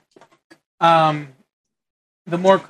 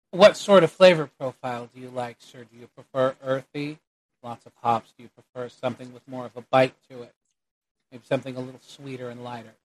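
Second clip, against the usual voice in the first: soft-spoken, courteous barkeep offering choices; a hint of a bartender, hushed toward the ends; lightly voiced bartender; 2 semitones lower, 6 dB quieter than usual. Game master plays the bartender.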